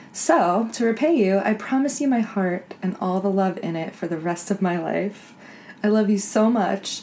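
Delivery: reading a love note with gentle, playful tenderness; lightly hammed-up love letter read aloud; mock romantic reading. Shown as a demonstration. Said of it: "romantic D M that I'll share with you".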